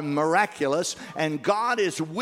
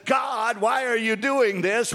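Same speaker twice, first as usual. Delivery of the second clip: crying out to God; 4 semitones higher than usual. Retold or imitated.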